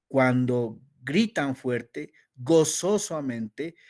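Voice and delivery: "griten fuerte" drawn out and loud; slow emphatic. Shown as a demonstration. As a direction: stretch it out joyfully. Muestra gritar con gozo. (lento y fuerte, con gozo)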